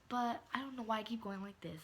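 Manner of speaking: hushed whispered aside. Real, not acted. Vlogger whispering about her own movements. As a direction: drop to a whisper, half to yourself. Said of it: "whispered aside".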